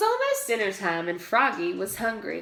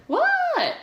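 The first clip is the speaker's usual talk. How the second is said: high, loud "What?"; shouted answer; 4 dB louder than usual. A narrator's reading. Froggy shouting back at his father. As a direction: yell back from far away.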